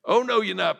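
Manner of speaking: high, loud indignant no; loud rebuke. Retold or imitated. Paul loudly confronting Peter before the elders, indignant. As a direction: call him out across the room.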